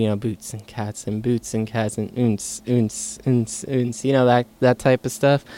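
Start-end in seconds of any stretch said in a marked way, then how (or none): 0.2-4.0 beatbox imitation. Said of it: "the boots and cats type music".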